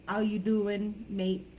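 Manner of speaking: light London accent with reduced h and t. Shown as a demonstration. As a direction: drop the sounds like a Londoner. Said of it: "the London accent especially tends to reduce sounds".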